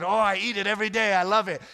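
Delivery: high, loud, quick and eager; enthusiastic reply. Retold or imitated. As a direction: gush about the dish you eat daily. Retelling his own cheerful reply.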